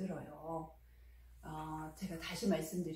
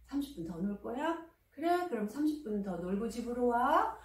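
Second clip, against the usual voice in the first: gentle; 3 semitones higher than usual. Shown as a demonstration. Mother gently giving her son thirty more minutes to play. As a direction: say yes kindly, without sighing. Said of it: "부드럽게 말하시면 돼요".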